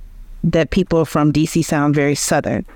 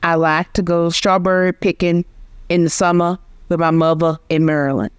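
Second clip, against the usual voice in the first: DC accent with mother as "movə" and strawberry as "ʃtɑbə˞i". Shown as a demonstration. Linguist giving the host a stereotypical DC version. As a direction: lightly put on a Black DC accent, R-dropping in "summer". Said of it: "most stereotypically D C version of that sentence".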